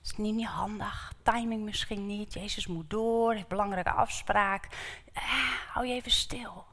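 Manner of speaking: soft shushing whisper; crowd hushing. Acted. The crowd hushes the blind beggar, soft whispered shushing. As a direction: hush him quietly, dismissively. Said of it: "En de menigte zegt".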